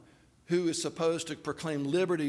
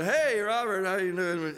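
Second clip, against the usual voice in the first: sheepish greeting; 3 semitones higher, 4 dB louder than usual. Retold or imitated. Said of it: "I'm so sheepish".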